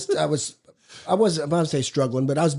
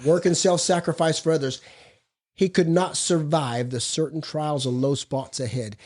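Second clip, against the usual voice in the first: measured, deliberate reading from the book; reading aloud. Acted. Speaker reads the Big Book passage to the group, measured. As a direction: read the passage slowly and weightily.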